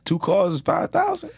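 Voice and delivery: surprised disbelief. Real, not acted. Host hears about huge paycheck.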